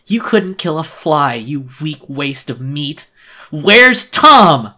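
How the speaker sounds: high, loud ghoul snarl, slow in the middle; snarling monster voice. Acted. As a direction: spit it out like a raging ghoul. Monster pins narrator to wall.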